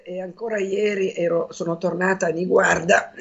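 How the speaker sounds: real hoarse, worn-out voice. Real, not acted. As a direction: speak through a sore, raspy throat. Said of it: "c'ho la voce roca". (voce roca)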